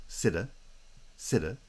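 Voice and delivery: cita stressed at the start; stress on first syllable. Shown as a demonstration. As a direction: cita as one foot, strong then weak. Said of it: "Stress is on the first syllable".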